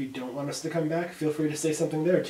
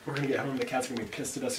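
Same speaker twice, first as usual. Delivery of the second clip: repeated louder so it's heard; faster than usual. Real, not acted. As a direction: say it again, louder for a listener who missed it.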